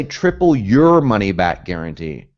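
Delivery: slow, deliberate wrong version; wrong wording, slowly. Shown as a demonstration. Coach shows students the wording to avoid, slowly. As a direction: spell out the wrong phrase slowly. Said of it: "Notice I don't say".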